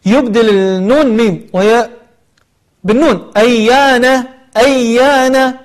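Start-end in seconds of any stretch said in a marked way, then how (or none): 3.4-5.5 أيان ending on n, not m; clear final n. Shown as a demonstration. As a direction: close أيان with a clean n. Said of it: "وليست أيام".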